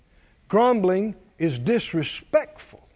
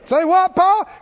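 much higher and louder cartoon bear; high, loud cartoon hillbilly question; Paul from Hillbilly Bears; 10 semitones higher, 7 dB louder than usual. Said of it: "Paul would go".

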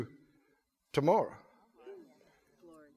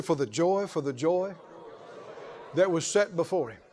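lower, softer prompt for the crowd; softer call and response; 4 semitones lower, 6 dB quieter than usual. Shown as a demonstration. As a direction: lead them gently in the repeat. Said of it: "Somebody say".

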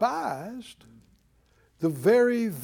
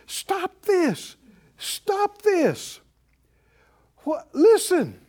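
much higher, pleading cry to stop; urgent plea; 10 semitones higher, much slower than usual. Acted. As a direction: beg the people to stop, urgently. Caleb and Joshua plead with crowd.

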